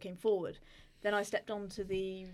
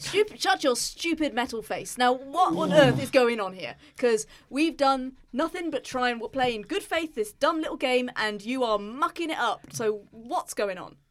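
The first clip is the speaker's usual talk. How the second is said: angry; 2 semitones higher, 6 dB louder than usual. Acted. Player scolds the Emperor in character.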